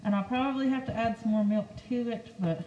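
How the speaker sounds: talking through a face mask; words muffled behind a mask. Real, not acted. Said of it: "hard to understand me with this mask on".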